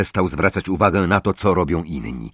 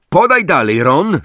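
high, louder team call; 8 semitones higher, 5 dB louder than usual. A narrator's reading. Angelina urging Ron to pass, calling out high. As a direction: call it across the pitch. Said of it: "zawołała Angelina".

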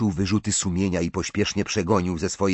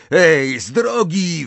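loud, high snap; snarled; 8 semitones higher, 6 dB louder, slower than usual. A narrator's reading. Ron orders a girl aside, snarling. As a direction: bark it to clear the way. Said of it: "warknął Ron".

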